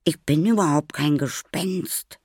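high, loud protest; indignant denial. A narrator's reading. Maya correcting the frightened boy, indignant denial. Denies being a ghost.

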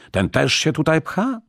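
high-pitched, indignant angry question; livid outrage. A narrator's reading. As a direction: shoot it out high, livid with anger. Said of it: "siniejąc z gniewu". (oburzone, gniewne pytanie wysokim głosem)

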